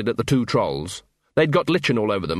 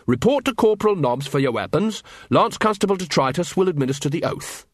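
lightly voiced officer, higher pitch; brisk officer; 6 semitones higher than usual. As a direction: give orders like a keen corporal. Carrot instructs his new recruits.

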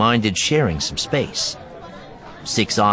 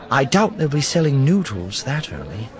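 Nakari; 6 semitones higher than usual. A narrator's reading. Narrator voices Nakari.

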